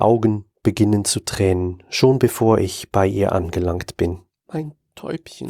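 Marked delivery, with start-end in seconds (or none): 4.5-5.5 soft, choked whisper. Acted. Father at his comatose daughter's bed, choked whisper. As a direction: barely get the words out. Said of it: "flüstere ich mit erstickter Stimme".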